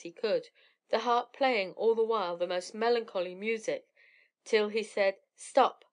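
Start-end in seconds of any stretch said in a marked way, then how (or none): 5.3-5.9 loud, sharp higher order; commanding shout. A narrator's reading. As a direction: stop the harp at once. Jack orders harp to stop.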